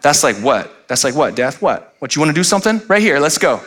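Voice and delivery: cocky challenge, rising toward the end; mock smack talk. Preacher taunting death as if picking a fight, mock smack talk. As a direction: square up to death like a high-schooler. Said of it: "You ever talk like that".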